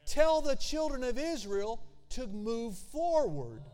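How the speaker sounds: high, emphatic preacher's order; acting out a firm divine command; God commanding. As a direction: order them onward, pitched well up. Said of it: "And God says".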